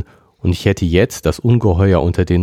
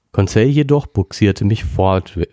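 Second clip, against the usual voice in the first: usual speaking voice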